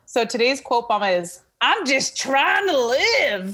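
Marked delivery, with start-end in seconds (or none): 1.6-3.5 slow, high-pitched, stretched-out stand-up comedian delivery. Quoting a comedian's catchphrase after getting in character: in character as a comedian. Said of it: "let me get in character".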